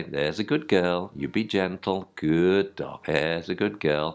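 soft gentle praise for the puppy; calm, soft praise for a gentle bite; praising softly. Shown as a demonstration. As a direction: coo a little praise at her. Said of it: "If they're gentle bites".

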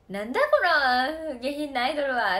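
lightly voiced grumpy old man scolding; a hint of a gruff farmer grumbling at the idol. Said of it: "って最初言ってたけど". (気難しいおじさんの軽い真似)

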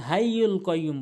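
হাইয়ুল কাইয়্যুম with a light h and plain k; common mispronunciation. Shown as a demonstration. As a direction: say হাইয়ুল কাইয়্যুম quickly with everyday h and k. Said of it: "অধিকাংশ লোক ভুল বলে".

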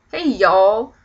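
half-hearted Texas drawl, a little loud; badly faked Texas accent; mock Texas accent. Shown as a demonstration. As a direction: try on a Texas accent, unconvincingly. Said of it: "one of those weird Texas accents".

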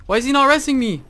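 loud, very high outraged cry; distressed yell. Real, not acted. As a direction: yell in disbelief at being abandoned. Downed, teammate not helping.

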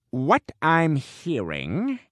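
very slow, stretched words; drawn-out deliberation. Acted. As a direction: draw each word out with long pauses. Critic drags out his verdict.

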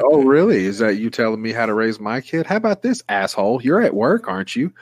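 rising, high indignant tirade; hammed-up fury cracking high at the end; mock rant. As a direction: tear into the agent, voice climbing. Imagined rant at support agent.

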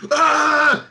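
high, loud crowd cheer imitation; drawn-out mock roar of fans; imitated crowd roar. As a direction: erupt like the crowd after a big punch. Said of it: "with a crowd there going".

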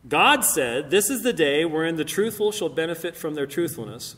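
emphatic reading from a holy text; scripture reading. Acted. Speaker reads a Quran verse to the audience, declaimed.

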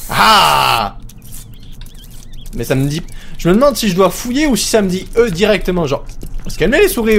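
ordinary delivery

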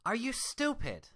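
sharp high loud snap; snapped. Acted. Twilight snapping at her reflection, loud and sharp. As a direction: bite the question off in fury. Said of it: "she snapped".

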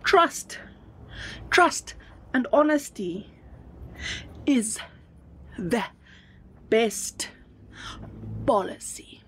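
each word set apart by long pauses; dictating word by word; slow dictation. Shown as a demonstration. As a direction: spell it out slowly so they can write it down. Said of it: "I need to write that down".

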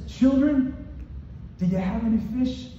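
high, gently lilting question; affectionate call. Acted. Jesus calling his disciples by a term of endearment, affectionate. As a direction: call out fondly to your dear ones. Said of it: "he uses a term of endearment here".

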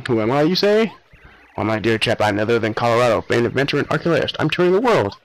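lightly voiced posh British adventurer; a hint of a pompous gentleman explorer boasting. Explorer introduces himself to Mario, a light posh voice.

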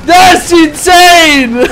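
drawn-out exclaim. Real, not acted. Pun on friend's name Insane.

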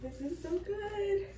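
high, slow shout of pure delight; delighted squeal. Real, not acted. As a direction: stretch it out in a happy shriek. Delighted by the printer.

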